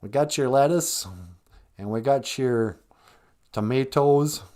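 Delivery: mock Minnesotan food server; Minnesota accent. Minnesota taco worker showing what they got, Minnesota accent. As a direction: list fillings in a Minnesota accent. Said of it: "like, Minnesota accent".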